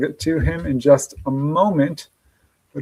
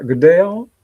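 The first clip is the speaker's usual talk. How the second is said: Good day, all in a light Australian accent; a mock Aussie greeting, Good day, all; 3 semitones higher, 5 dB louder than usual. Shown as a demonstration. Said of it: "I'm reading the accent there".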